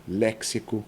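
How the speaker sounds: "léxico" stressed on LÉ; antepenultimate stress. Shown as a demonstration. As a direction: hit the LÉ in "léxico". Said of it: "proparoxítona". ("léxico" com o LÉ tônico)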